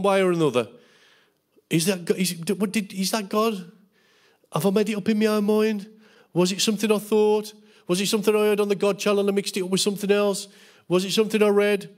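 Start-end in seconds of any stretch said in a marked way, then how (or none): 1.7-11.9 higher-pitched, mildly worried self-questioning; mock doubting. Preacher imitating Christians unsure whether it was God, mock doubting. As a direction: act out a dithering believer, one query after another.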